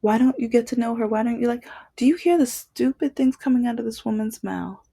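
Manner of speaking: mock incredulous ex asking her boyfriend; imitating ex. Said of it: "would be like".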